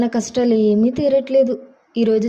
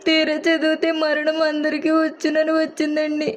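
crying; 5 semitones higher than usual. Acted. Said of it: "ఎక్కెక్కిపడి ఏడుస్తున్నావు".

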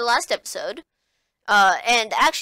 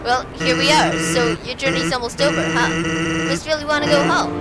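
lower, lazy skeleton voice; Sans voice; 6 semitones lower than usual. Acted. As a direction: drop it low and laid-back. Reads Sans dialogue.

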